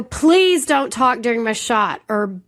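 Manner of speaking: retold outburst, a touch heated; losing it. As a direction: snap at a friend mid-game, mildly. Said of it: "I lost it".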